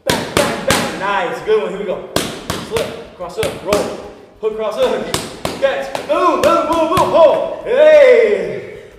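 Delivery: high, loud, intense shouting calls; boxing coach calling combos. Shown as a demonstration. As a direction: roar the combo at full intensity. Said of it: "my intensity's getting a little too much".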